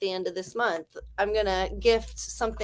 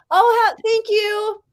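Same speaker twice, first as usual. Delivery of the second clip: breathy laugh; 11 semitones higher, 8 dB louder, slower than usual. Real, not acted. Laughing thanks after abs comment.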